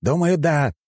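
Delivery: high, exasperated cry; shouting. A narrator's reading. Zhenya answers the hero's pressing, shouting. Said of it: "закричал он".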